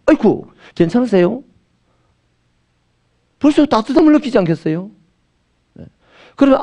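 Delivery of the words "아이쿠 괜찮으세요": kind concern. Retold or imitated. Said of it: "예수 사랑의 연습이 잘 된 사람은".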